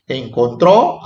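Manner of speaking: "encontró" with a rising, accented final O; stress on final syllable. Shown as a demonstration. Teacher pointing out written accents, stress on the O of "encontró". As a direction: land on the last O of "encontró". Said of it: "acento a la O".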